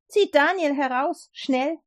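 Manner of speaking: urgent command. Acted. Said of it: "befahl sofort".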